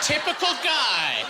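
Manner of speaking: slow, drawn-out eye-roll; sarcastic. Acted. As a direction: drag it out with disdain. Sarcastic comment on the guy.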